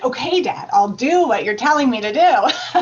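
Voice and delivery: loud, laughing reluctant okay; mock compliance. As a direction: give in to dad with a laugh. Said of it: "finally I was like".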